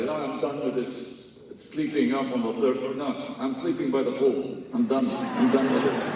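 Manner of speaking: put-on lightly done South African accent; a hint of South African accent. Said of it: "sorry for the South African accent".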